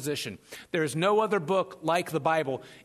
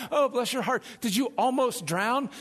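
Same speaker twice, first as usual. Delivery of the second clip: Southern lady; 3 semitones higher than usual. Acted. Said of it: "some Southern lady goes".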